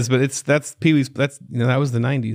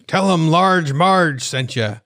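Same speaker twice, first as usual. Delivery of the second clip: high, slow spooky lady voice; creepy slow drawl; 5 semitones higher, 3 dB louder, much slower than usual. Retold or imitated. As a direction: drag it out like a ghost story. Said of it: "she goes".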